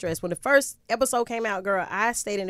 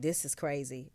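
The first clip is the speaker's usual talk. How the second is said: quiet disbelief; 4 semitones lower, 10 dB quieter than usual. Retold or imitated. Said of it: "It was like".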